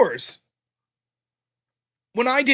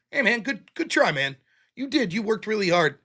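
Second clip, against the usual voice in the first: put-on gentle kid-glove coaching; 4 dB quieter than usual. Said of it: "kid's glove with my partner".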